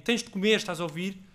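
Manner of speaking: stern order. Retold or imitated. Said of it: "ordena-lhe Américo".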